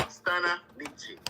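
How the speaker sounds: slow, careful "Stana Nietzsche", STA-nan EE-shi; correct pronunciation. Shown as a demonstration. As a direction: spell the name out slowly, "Stana Nietzsche". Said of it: "that's the pronunciation".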